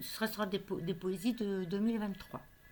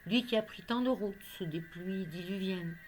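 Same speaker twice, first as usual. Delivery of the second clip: measured poetry reading with pauses between phrases; poem recitation. Acted. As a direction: recite a love poem line by line. Recites her poem on love.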